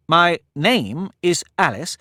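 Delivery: a hint of a polite young girl, slow; lightly voiced girl. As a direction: answer him sweetly and carefully. Alice answers politely.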